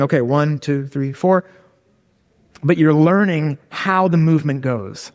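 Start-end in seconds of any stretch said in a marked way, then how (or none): 0.0-1.4 counting steps. Acted. Learner counting salsa steps to themselves, counting steps. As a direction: count out the steps under your breath. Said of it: "you're not going".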